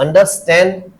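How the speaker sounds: understand said slowly with weight on stand; stress on STAND. Shown as a demonstration. Teacher showing compound verb stress, stress on stand. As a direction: stretch it out and lean on stand in understand. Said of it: "स्टैंड पे आ गया".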